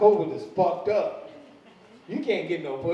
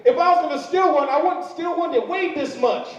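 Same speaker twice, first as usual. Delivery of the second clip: exasperated protest; 9 semitones higher, 3 dB louder than usual. Real, not acted. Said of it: "defending himself, laughing".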